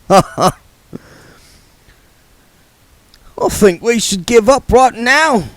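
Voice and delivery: slow, lightly voiced smooth gambler; oily card sharp talking down; Mister Frank's voice.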